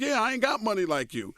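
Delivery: lightly voiced high whiny comeback; retold comeback. Answering Jordan at the bar, mock whiny comeback. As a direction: play your younger self griping back. His own retold reply.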